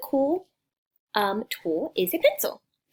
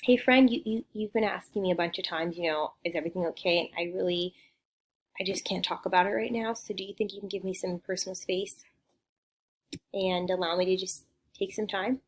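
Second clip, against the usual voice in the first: softening, measured polite request; calm, after deep breath. Acted. Asking a friend for personal space, calm and polite. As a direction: start friendly, then ease down gently. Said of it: "take a deep breath and say".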